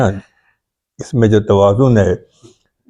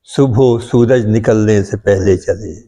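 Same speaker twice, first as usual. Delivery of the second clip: measured Urdu verse recital, opening line lifted; poetry recitation. Acted. Poet opens a requested ghazal for his friends, reciting. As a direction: recite the couplet, settling as it closes.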